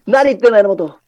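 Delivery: a hint of a singer; impression of a singer. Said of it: "似てるよ、すっごく".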